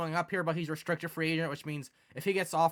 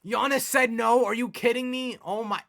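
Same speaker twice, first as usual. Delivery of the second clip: shocked outburst; 7 semitones higher, 8 dB louder than usual. Real, not acted. Gamer sees his star pick the Warriors, shocked yelling. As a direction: yell in stunned disbelief at the screen. Free agent rejects, streamer outraged.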